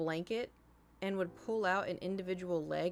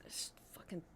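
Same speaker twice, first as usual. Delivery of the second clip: whisper; 3 semitones lower, 8 dB quieter than usual. Real, not acted. Aside about her cat.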